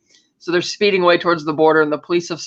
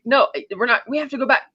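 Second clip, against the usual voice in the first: higher-pitched mock protest; imitating insistent woman; 7 semitones higher than usual. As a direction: argue back as the woman, pitched up.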